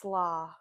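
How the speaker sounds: "sla" run together and held on the vowel; blended sounds. Shown as a demonstration.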